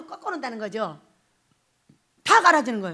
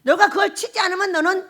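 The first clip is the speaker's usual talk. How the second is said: quoting Romans; 3 semitones higher, 4 dB louder than usual. Retold or imitated. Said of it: "이렇게 말하는 거예요".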